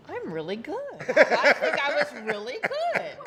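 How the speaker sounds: mock boastful brag, laughing; Dale Hansen bragging. Wife mimics husband's boasting, laughing. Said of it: "I'm gonna do a Dale Hansen here".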